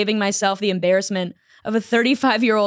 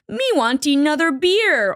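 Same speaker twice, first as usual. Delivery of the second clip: put-on higher, slow toddler voice; mock a grown man talking like a toddler; toddler baby talk; 5 semitones higher than usual.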